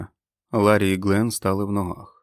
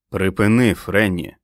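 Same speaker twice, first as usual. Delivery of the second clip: raised voice, ordering her to stop; firm interruption; 6 dB louder, slower than usual. Acted. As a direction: cut her off sharply without raising pitch. Cutting off Fran's tirade. (різко й голосно зупиняючи)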